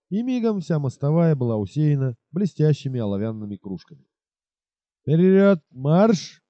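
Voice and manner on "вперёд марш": shouted command. Acted. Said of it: "крикнул Скерти".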